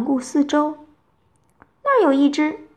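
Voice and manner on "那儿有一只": higher-pitched call of discovery; excited cry. A narrator's reading. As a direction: call out that you've spotted it. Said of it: "他叫起来".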